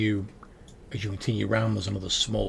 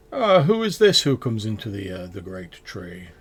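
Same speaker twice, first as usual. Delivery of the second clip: guard; 7 dB louder than usual. Acted. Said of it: "are like".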